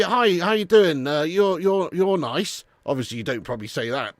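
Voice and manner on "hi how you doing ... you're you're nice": shy chat-up. Retold or imitated. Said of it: "you go up to a bird".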